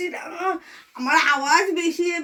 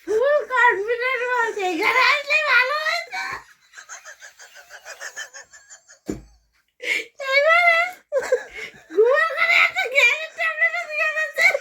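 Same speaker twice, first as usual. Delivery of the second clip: helpless laughter; 9 semitones higher than usual. Real, not acted. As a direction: barely get the story out for laughing. Helpless laughter telling the story. (হেসে গড়িয়ে পড়তে পড়তে উঁচু গলায় বলা)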